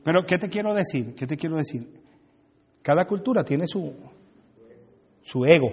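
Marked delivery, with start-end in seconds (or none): none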